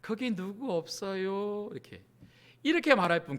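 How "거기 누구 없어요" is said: genteel, unhurried call for help; mock dignified, slow and soft. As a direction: politely ask if anyone is around, slowly. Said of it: "손을 이렇게 굉장히 고상하게 흔들면서".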